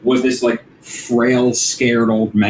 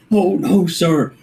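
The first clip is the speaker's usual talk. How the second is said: pleading; 6 semitones higher, slower than usual. Acted. Acted begging of the captain.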